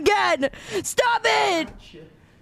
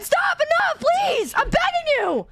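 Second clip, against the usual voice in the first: high, pleading whine that keeps climbing; desperate begging; 4 semitones higher, slower than usual. Real, not acted. Streamer begging the clip to stop, desperate high pleading. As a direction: beg like you can't take any more.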